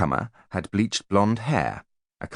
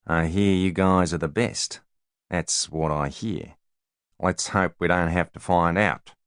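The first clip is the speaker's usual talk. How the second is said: lazy New Zealand drawl with a veiled threat; slow New Zealand accent, menacing; New Zealand bodyguard drawl. Acted. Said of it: "in a New Zealand drawl".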